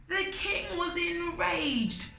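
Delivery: dramatic narration. A narrator's reading. Narrating king's rage.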